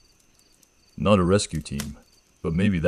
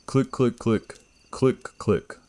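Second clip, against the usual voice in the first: sharp, higher clicking sounds like snapping crab claws; imitated clicks; 7 semitones higher, slower than usual. A narrator's reading. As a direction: click it out crisply, like claws underwater. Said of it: "Sharp clicks".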